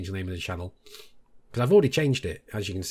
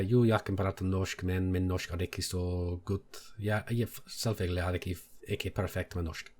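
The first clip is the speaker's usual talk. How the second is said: speaking Norwegian; 4 semitones lower, 6 dB quieter than usual. Shown as a demonstration. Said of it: "I can say things like".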